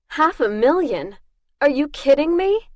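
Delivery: indignant disbelief at her own price; incredulous. Acted. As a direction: sound insulted by the sum. Outraged at the low bounty.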